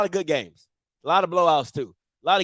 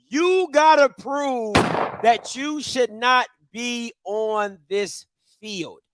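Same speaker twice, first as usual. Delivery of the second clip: slow, lightly voiced stern editor; a hint of a gruff boss, drawn out slowly; Perry White voice; 3 semitones higher, much slower than usual. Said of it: "I said that with Perry White".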